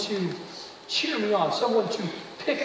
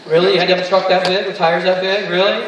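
nosy houseguest; 11 dB louder than usual. Retold or imitated. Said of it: "walk in your house and go".

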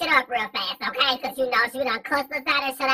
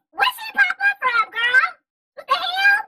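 mock shocked; 14 semitones higher, 3 dB louder than usual. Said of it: "Girl, I was like".

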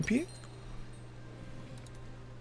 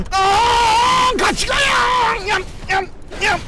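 excited shouting; slower than usual. Real, not acted. Shouting while chasing in game.

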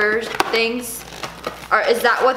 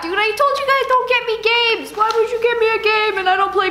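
mock annoyed; 9 semitones higher than usual. Mock scolding gift giver.

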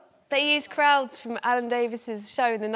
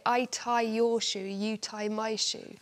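mock extras' gibberish; slower than usual. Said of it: "so they just got them to say".

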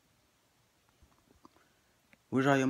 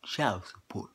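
unvoiced whisper of the dreaded words; whispered reveal; whispered punchline; 3 semitones lower, 7 dB quieter, slower than usual. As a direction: hush it like a curse.

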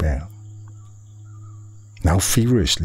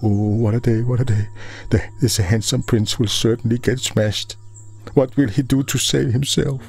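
high-pitched worried commentary of watching gods; anxious bystanders' high murmur, not softened; fretting onlookers; 6 semitones higher than usual. A narrator's reading. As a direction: fret aloud in a raised, put-on voice. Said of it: "they mumbled".

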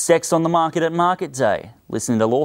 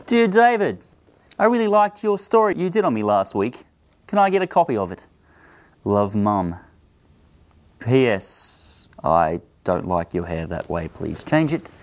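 reading mum's letter; 3 semitones lower than usual. Retold or imitated. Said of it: "Our first letter reads".

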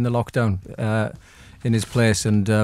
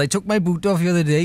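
put-on Welsh accent; 4 semitones higher than usual. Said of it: "you can really do Welsh accents".

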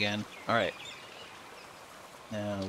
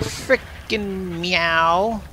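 mock cat meow; 8 semitones higher, much slower than usual. Mimicking the cat.

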